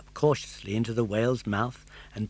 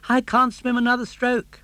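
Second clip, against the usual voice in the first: put-on high, bright puppet boy voice; a determined young puppet, raised pitch; Pinocchio; 11 semitones higher, 7 dB louder than usual. Puppet boy urging his father, high and eager.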